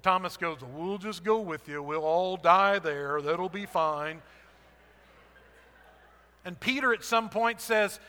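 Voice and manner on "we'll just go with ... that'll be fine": gloomy Eeyore. Acted. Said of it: "he was kind of the Eeyore of the disciples".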